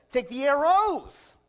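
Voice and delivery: loud slow command. Acted. Prophet ordering the king, loud and slow. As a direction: order it from on high.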